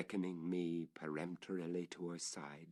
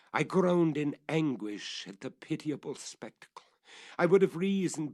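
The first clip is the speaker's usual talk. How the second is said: anguished outburst; 6 semitones higher, 7 dB louder than usual. A narrator's reading.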